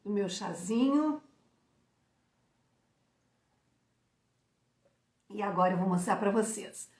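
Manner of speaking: sipping tea between words; while sipping a drink. Real, not acted. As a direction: talk around a sip of tea. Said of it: "Deixa eu tomar um golinho de".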